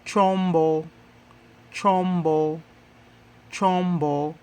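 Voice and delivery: chombo drilled three times, syllables distinct; Swahili model word. Shown as a demonstration. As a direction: set out chombo for the class to echo. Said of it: "how do you say tool in Swahili?".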